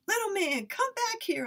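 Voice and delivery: high, loud call across the yard. Acted. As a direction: call after him to come back. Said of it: "I called".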